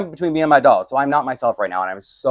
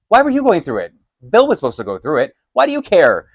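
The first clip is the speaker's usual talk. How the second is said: high, incredulous challenge; indignant questioning; 4 semitones higher, 4 dB louder than usual. Retold or imitated. Questioning him about the camera footage, indignant. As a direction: challenge them, pitch jumping on questions. Suspicious challenge in retold quarrel.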